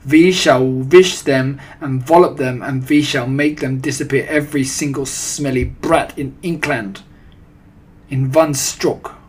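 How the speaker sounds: put-on loud, heavily accented witch tirade; domineering villainess proclamation; thundering. A narrator's reading. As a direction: rant with w said as v. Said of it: "thundered the Grand High Witch".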